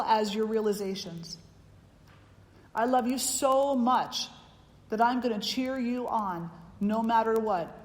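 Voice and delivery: earnest, heartfelt vow of love; strong love. Retold or imitated. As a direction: declare steadfast love with conviction. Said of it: "it's a strong love".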